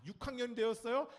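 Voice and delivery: usual speaking voice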